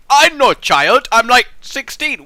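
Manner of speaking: put-on whiny teen voice. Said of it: "need to say".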